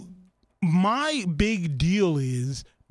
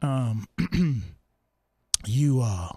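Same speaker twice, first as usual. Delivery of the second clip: wife calling him home; 6 semitones lower than usual. Retold or imitated. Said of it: "my wife is like".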